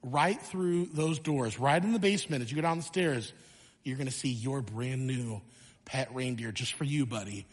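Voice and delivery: a hint of a proud father coaxing his son; dad guiding his son to the basement, hushed and low; dad's gentle reveal. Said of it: "he's like".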